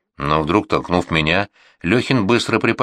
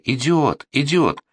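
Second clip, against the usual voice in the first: raised, higher yells of "Идиот"; shouting; 7 semitones higher, slower than usual. A narrator's reading. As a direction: shout it at the stubborn horse. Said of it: "И вот мы закричали".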